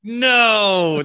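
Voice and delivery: high, loud, drawn-out wail; anguished cry. Retold or imitated. Hunter reliving his horn blunder to friend, anguished shout. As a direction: cry out as if all is lost. Retold horror at accidental honk.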